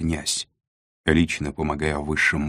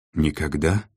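"Никогда" with a slight rise at the end; "Никогда" as a checking, understated question; questioning echo. A narrator's reading. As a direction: ask "Никогда" back as a question, voice lifting on the end. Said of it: "переспросила девушка".

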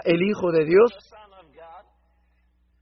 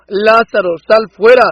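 shouted call, louder on fuera; loud command; 7 dB louder than usual. Acted. Preacher voicing Jesus ordering Lazarus out, shouted command. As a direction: order him out of the tomb at full voice. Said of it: "él dijo".

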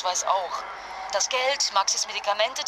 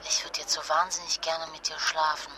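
seductive; 4 semitones lower than usual. Acted. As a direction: purr it to him. Flirtet am Telefon. (verführerisch, tief und leise)

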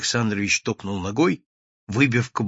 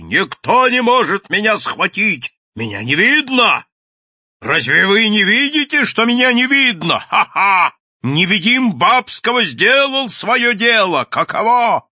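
high, loud crazed boasting; bawling; 10 semitones higher, 6 dB louder than usual. A narrator's reading. Mad inventor defying those trying to catch him, bawling. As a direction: crow triumphantly at full voice. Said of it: "орал Бабский".

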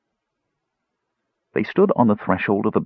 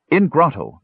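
simple dwarf voice; 8 semitones higher than usual. A narrator's reading. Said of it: "Numskull explained".

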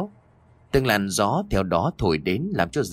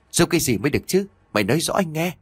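irritated; 7 semitones higher, much faster than usual. A narrator's reading. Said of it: "Dần hơi nóng mình".

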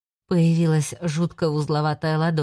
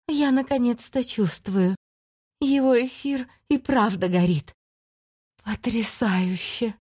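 hungry demon voice; 5 semitones higher than usual. Acted. Demon Dershaks savours his ether.

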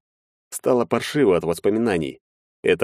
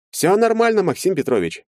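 higher reassuring tone, glib; evasive lawyer; 13 semitones higher than usual. A narrator's reading. Lawyer to Maxim, higher and evasive. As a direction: brush off the question smoothly.

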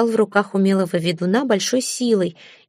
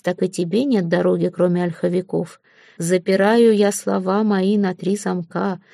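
incantation. A narrator's reading. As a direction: cast the spell word by word. Ведун произносит заговор.

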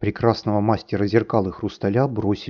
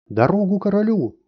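high shrill shout, much higher; a little whirlwind clearing the way; 11 semitones higher, 3 dB louder than usual. A narrator's reading. Small whirlwind crying out ahead of the king, high shout. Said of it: "крича".

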